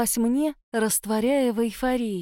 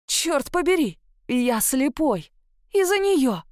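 angry panic; 4 semitones higher, slower than usual. A narrator's reading. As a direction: rage and panic at once. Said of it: "смешались гнев и паника".

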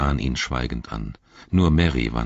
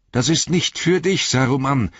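high, strained cry; shrill, toneless voice; 10 semitones higher, 4 dB louder than usual. A narrator's reading. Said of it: "rief er mit schriller, tonloser Stimme". (schrill und tonlos gerufen)

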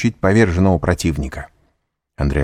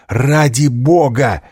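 протяжная испуганная мольба, выше обычного; взмолись медленно и растерянно; растерянное восклицание; 7 semitones higher, 4 dB louder, much slower than usual. A narrator's reading. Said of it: "воскликнул он, бледный, растерянный". (испуганное восклицание)

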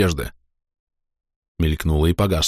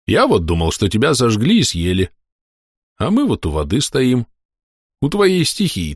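cheerful soldier. Acted. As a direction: tease him kindly. Ilyukha's voice.

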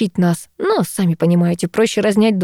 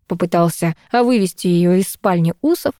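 ordinary delivery

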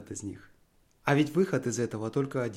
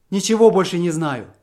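loud, higher cry of despair; 4 semitones higher, 9 dB louder than usual. A narrator's reading. Husband hides his face from his wife, crying out in despair. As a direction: give up entirely, voice breaking out.

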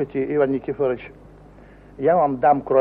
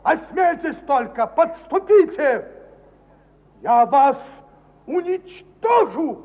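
menacing threat. Acted. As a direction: threaten them word by word. Threatening the servants.

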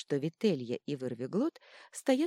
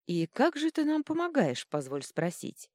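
sarcastic, a high start on the question; mocking question to the god, sarcastic; snide; 10 semitones higher, 5 dB louder than usual. A narrator's reading. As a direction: ask with a sly, needling edge. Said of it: "добавила во внутренний монолог ехидства".

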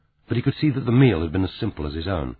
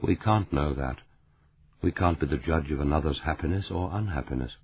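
gently; 3 semitones lower, 6 dB quieter than usual. Acted. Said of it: "He said gently".

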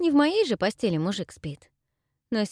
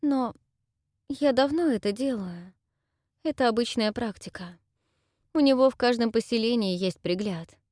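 put-on higher, pleading girl's voice; tearful young woman; 3 semitones higher than usual. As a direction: confess through held-back tears. Dayra explains herself. (голос расстроенной девушки)

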